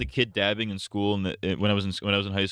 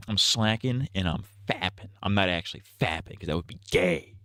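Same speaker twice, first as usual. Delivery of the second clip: Trump impression. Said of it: "my Trump impression".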